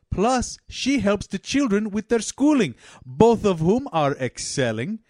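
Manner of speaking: proud Afghan father, hammed up; effusive Afghan-accented speech with swooping pitch. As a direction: boast in a put-on Afghan accent. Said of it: "Two families from Afghanistan".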